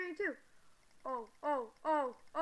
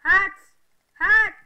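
loud, delighted yell; excited shout; 4 semitones higher, 16 dB louder than usual. Real, not acted. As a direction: shout it out, thrilled at the find. Finds hats, yells.

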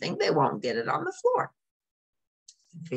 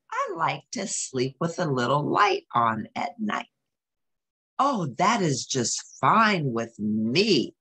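gentle read-aloud narration; storybook reading. A narrator's reading. Parent reading a Grover book to a child, storybook voice. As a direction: read it like a bedtime picture book.

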